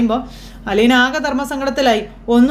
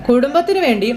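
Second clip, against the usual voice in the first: mocking; 3 semitones higher, slower than usual. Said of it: "കളിയാക്കി ചോദിക്കുമ്പോൾ".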